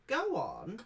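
high, loud granny voice urging you on; grandmother's urging. Acted. Grandmother urging grandchild to go outside, high and loud. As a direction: shoo the child out like a grandma. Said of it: "she says".

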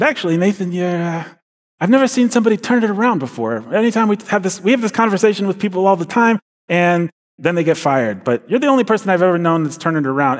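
imitating a delighted Bronx boss; Bronx boss pleased. Boss from the Bronx praises Nathan's turnaround, excited Bronx accent. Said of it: "this guy from the Bronx".

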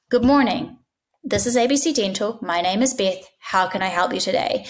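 perfect warm welcome. Shown as a demonstration. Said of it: "perfect warm welcome".

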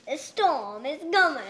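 faint attempt at Irish accent; barely-there Irish accent, dramatic line. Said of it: "Can you do an Irish accent?".

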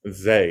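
"Zay" with a long A, as in "say"; A sound. Shown as a demonstration. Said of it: "middle syllable is an A sound".

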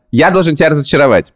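ordinary talk

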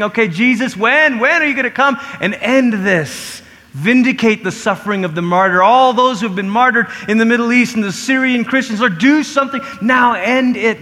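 acted-out impassioned plea; urgent pleading. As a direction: plead for action with rising urgency. Saints imagined pleading with Jesus.

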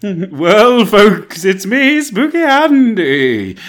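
spooky voice. Acted. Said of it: "should have done it in the spooky voice".

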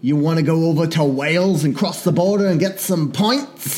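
hammy put-on British accent; mock British accent. Pretend local suggesting a trip to Wales, mock British accent. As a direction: keep up a muddled British accent.

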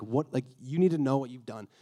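firm but not yelling; a quiet, serious telling-off; kinda stern. Retold or imitated. God facing the man after the fall, mildly stern. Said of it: "I picture him saying this kinda stern, not, like, yelling".

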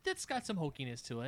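faint, far from the mic; very soft, distant remark. Real, not acted. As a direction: say it softly, away from the microphone. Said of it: "Get closer to the mic".

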